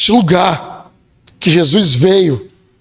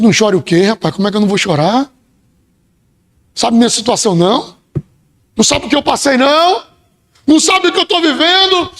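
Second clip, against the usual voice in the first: indignant protest; 3 semitones higher, faster than usual. Retold or imitated. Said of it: "Eu teria dito".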